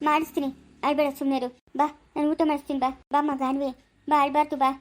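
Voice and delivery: low, motherly coaxing; soothing. Acted. Mother calling a crying girl to come and eat, soothing. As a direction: gently lead a tearful child along.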